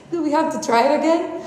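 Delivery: high, quick dismayed protest; dismayed question. Retold or imitated. Passenger hears pilot will retry landing, dismayed.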